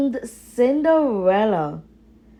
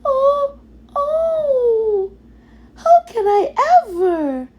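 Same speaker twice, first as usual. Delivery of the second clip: much higher, voice breaking with happy tears; tearful gratitude; 3 dB louder than usual. Acted. Cinderella thanks the mice for the gown, much higher, teary. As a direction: sob out your thanks, overwhelmed. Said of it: "could hardly speak".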